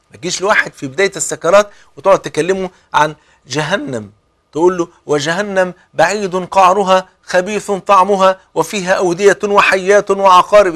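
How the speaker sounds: mock fire-and-brimstone preaching; harsh scolding. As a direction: thunder threats at a dying man. Mocking harsh talk at deathbed.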